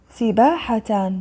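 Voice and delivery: سباحة drawn out with a final -tan; tanween fath. Shown as a demonstration. Teacher reading out the word list, tanween fath on سباحة. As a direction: sound out سباحة slowly as "sibaahatan". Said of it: "فتح".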